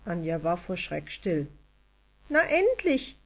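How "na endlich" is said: high elf voice, sighed out; tiny fairy sighing with relief. A narrator's reading. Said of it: "seufzte die Stimme".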